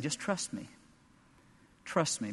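God softly inviting trust; gentle plea. Acted. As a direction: coax them softly.

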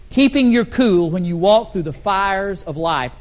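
ordinary talk

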